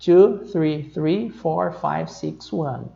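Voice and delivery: slow digit-by-digit reading; phone number spelled out slowly, digit by digit; one by one. Shown as a demonstration. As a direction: read each number separately, slowly. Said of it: "eu posso ler um de cada vez".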